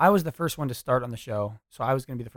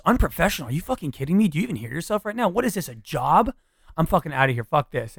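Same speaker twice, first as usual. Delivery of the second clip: put-on angry boyfriend; 4 semitones higher, 4 dB louder than usual. Shown as a demonstration. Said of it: "And he goes".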